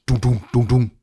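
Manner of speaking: dull rhythmic thumps; spoken sound effect of something thumping; imitated thudding. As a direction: voice heavy thuds in pairs. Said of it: "så hører jeg lige pludselig sådan".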